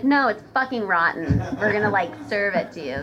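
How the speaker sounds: loud, mocking sarcastic reply. Server mocking a customer's fish question, loud and sarcastic. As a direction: snap back with fake honesty. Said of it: "And I'm just like".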